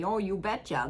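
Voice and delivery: mock the upper Midwest "Oh, you betcha" the way everyone jokes about it; joking Minnesota accent. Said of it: "the way, like, everyone jokes around about it".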